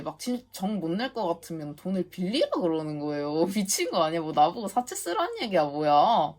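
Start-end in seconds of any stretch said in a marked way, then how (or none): 3.5-6.3 laughing in disbelief, then a louder "뭐야?"; real outrage at the absurd demand; incredulous outrage. Real, not acted. Vlogger venting to viewers about the agent, in laughing disbelief.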